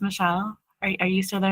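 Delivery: soft, calm hypnotist voice; hypnosis voice. Retold or imitated. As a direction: gently call her back from trance. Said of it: "in her, like, hypnosis voice".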